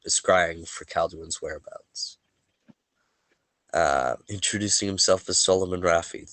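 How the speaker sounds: a measured game-master read of last session's events, only lightly set apart from his chat; story recap narration. Acted. Game master recapping the last session for his players, a lightly measured narrator read. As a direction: tell the story so far like opening a chapter.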